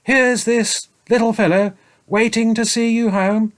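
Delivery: high, slow stern scolding; scolding saint. A narrator's reading. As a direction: scold the selfish dragon.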